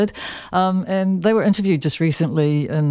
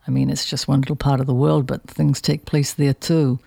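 lightly put-on New York accent; Harvey Keitel New York accent. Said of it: "A very bad New York accent from me".

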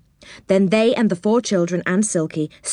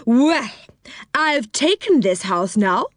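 put-on old woman voice; 4 semitones higher than usual. A narrator's reading. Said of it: "said the old woman".

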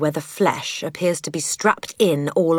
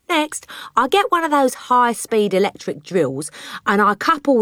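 boastful crooked father; 3 semitones higher than usual. Acted. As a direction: brag like a wheeler-dealer dad.

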